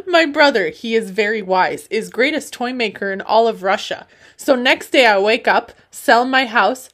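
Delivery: put-on loud, comic Russian accent. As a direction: declaim it loudly in Russian-accented English. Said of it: "said that all in an accent".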